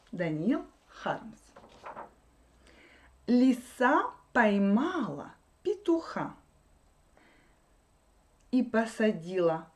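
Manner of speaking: put-on measured reading of a children's verse; poem read out for learners; poem recitation. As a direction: recite the Russian verse line by line, clearly.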